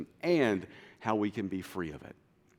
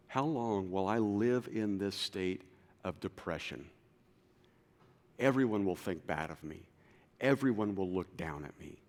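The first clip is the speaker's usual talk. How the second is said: despondent; 3 semitones lower, 3 dB quieter than usual. Acted. Voicing depression.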